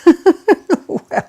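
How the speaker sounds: high, loud laughing refusal; mock protest. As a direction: fling back a shocked no way. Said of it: "they said. I, "No way".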